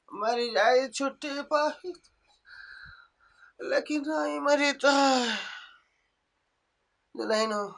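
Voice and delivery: a grumbling sick mother-in-law who moans and complains; lightly voiced ailing old woman.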